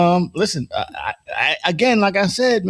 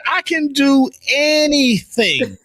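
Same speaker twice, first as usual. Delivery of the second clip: mock boastful Trump; 8 semitones higher, 3 dB louder, much slower than usual. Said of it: "this motherfucker said".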